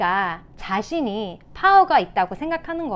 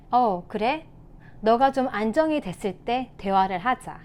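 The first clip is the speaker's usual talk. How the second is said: composed, unheated reply; calm parent. Shown as a demonstration. Parent answering a rude child, calm demonstration. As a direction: model a parent staying calm. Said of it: "라고 하는 대신에".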